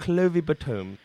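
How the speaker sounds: Clovey Batoom with long oo; posh pronunciation. Shown as a demonstration. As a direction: say Batoom as ba-TOOM. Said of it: "they pronounce it".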